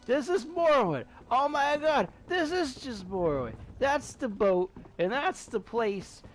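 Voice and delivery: high-pitched, amazed exclamations; excited recognition. Real, not acted. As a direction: blurt it out in rising disbelief and delight. Recognizes a beloved game's setting.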